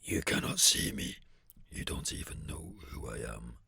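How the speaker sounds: eerie breathy whisper; dramatic whisper. Acted. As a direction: hush it out for drama. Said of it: "just for the sake of building a bit of drama".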